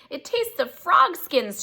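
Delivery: gasped. A narrator's reading. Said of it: "she gasped".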